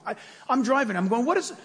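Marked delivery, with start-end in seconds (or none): 1.3-1.5 exasperated. Retold or imitated. Yelling at GPS while driving.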